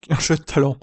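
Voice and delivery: laughing through the words; amused mocking repeat. Real, not acted. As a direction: scoff at the phrase with a laugh. Laughing repeat of quoted phrase.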